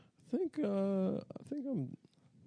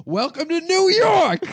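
much higher, louder, slow street shout; retold shout; 10 dB louder than usual. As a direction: bellow it from the corner, drawn out. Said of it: "he just shouted at the car".

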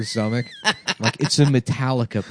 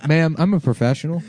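laughing through a mock professional claim; laughing reassurance; 5 semitones higher than usual. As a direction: insist while cracking up. Fitter insisting, laughing.

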